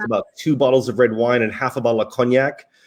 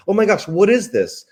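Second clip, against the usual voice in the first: higher-pitched mock awe; retold amazement; 7 semitones higher than usual. Diner amazed by an hors d'oeuvre asks for the chef, retold amazement. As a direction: marvel in a raised voice. Retold delight at tasting food.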